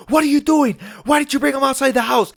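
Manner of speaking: high-pitched mock outrage; alarmed scolding. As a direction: imitate a panicked guardian demanding answers. Acted alarmed scolding on discovering them.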